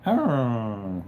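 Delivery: little dog "arr" noise; drawn-out imitation of a dog's noise; imitated dog noise. Showing chat the noise the itchy dog makes, imitated dog "arr". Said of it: "he makes this little".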